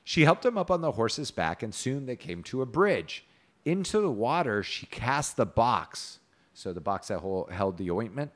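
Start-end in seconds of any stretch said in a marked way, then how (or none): 0.0-6.2 measured storybook reading; story narration. A narrator's reading. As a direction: read the tale aloud with old-fashioned cadence.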